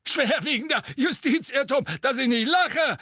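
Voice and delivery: high cracking mocking "Schwerwiegender Justizirrtum". A narrator's reading. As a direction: squawk "Schwerwiegender Justizirrtum" with a breaking voice. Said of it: "rief Fudge mit sich überschlagender Stimme".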